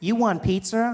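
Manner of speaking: high, digital voice-assistant voice. Acting out the phone assistant answering a request: Siri voice. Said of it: "She's like".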